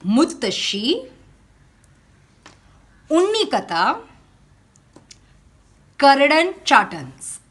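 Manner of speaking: "Muttashi" as mut-ta-shi, "Unnikatha" as oon-nee-ka-ta with long n, "Karadan Chattans" with stress on KA and hard retroflex t; teacher modelling "Muttashi", "Unnikatha", "Karadan Chattans" for the class to copy; Malayalam words spelled out. Shown as a demonstration. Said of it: "we are going to come across these few Malayalam words".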